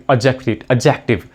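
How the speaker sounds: adjective repeated, D silent; repeated pronunciation demo. Shown as a demonstration. Teacher drilling the word adjective for students, carefully. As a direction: model adjective twice for the class. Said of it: "the pronunciation of this word is".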